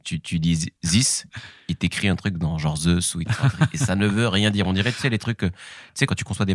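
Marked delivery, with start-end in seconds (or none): 0.8-1.3 "this" said slowly, the French way; a slow, mocking franglais "this"; French-accent this. Shown as a demonstration. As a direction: drag out "this" like a French speaker stuck on the th. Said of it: "because they speak like this".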